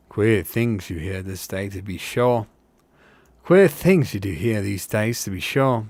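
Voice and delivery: lightly voiced rustic hobbit; a hint of country-folk gossip; simple working hobbit. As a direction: speak as a simple working fellow.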